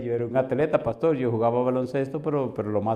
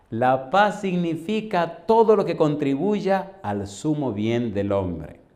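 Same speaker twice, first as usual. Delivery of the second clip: solemn preaching; much slower than usual. Real, not acted. Solemn doctrinal explanation.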